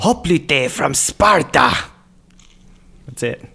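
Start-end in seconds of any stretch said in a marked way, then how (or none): 0.0-1.7 slow, higher imitation of a game soldier; game unit voice. Imitating Rome Total War for friends, drawn-out unit voice. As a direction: announce yourself like a clicked war-game unit. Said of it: "click on a unit and it goes".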